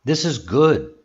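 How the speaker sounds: mild exclamation, lifting on "good". Shown as a demonstration. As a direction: show mild surprise, pitch up on "good". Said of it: "show surprise, your voice goes up".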